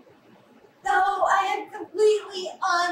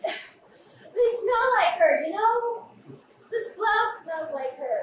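tearful; 3 semitones higher than usual. Acted. Sister tells her brother the clothes smell like her, tearful. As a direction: let it catch in the throat.

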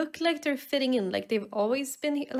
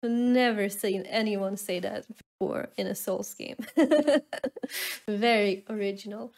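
sarcastic; 2 semitones lower than usual. Real, not acted. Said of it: "sorry, I'm getting salty".

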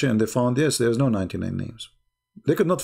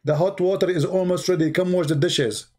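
higher-pitched mock scolding; mock scream; 5 semitones higher than usual. Wife calling back her husband as he leaves, mock scream. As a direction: imitate a wife yelling, without real volume. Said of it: "She screamed. She said".

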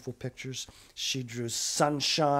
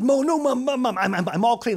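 high, loud stammering protest; panicked stammer; 9 semitones higher, 6 dB louder than usual. Acted. Girl stammering to stop mum washing her hands. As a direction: stumble over the words in panic.

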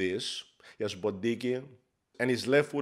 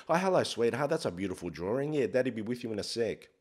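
sweet dad voice. Retold or imitated. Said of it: "you switch".

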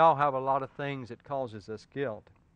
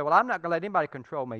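defiant objection; 2 semitones higher, 5 dB louder, much faster than usual. Retold or imitated. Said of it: "You say".

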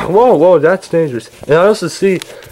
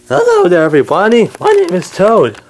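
high Toad voice; 5 semitones higher than usual. Acted. Toad greets everybody in a much higher voice. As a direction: pitch it way up, then settle for the name. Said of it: "I actually don't know why my voice is high".

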